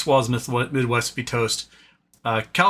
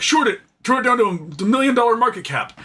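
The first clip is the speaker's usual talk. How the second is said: high, careless brush-off; dismissive; 9 semitones higher, 3 dB louder than usual. Retold or imitated. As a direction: toss it away like a cocky trader. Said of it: "They're like".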